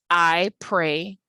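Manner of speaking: "I pray" as an iambic pair, weight on PRAY; unstressed-stressed pair. Shown as a demonstration. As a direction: count out "I pray", short then long. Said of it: "unstressed and stressed syllables repeating".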